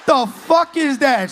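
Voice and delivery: mock shout.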